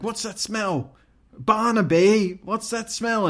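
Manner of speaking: put-on taunting kids. Kids asking Barnaby about a smell, singsong taunt.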